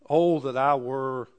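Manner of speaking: Job, remembering better days, wistfully; wistful longing. Retold or imitated. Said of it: "He says".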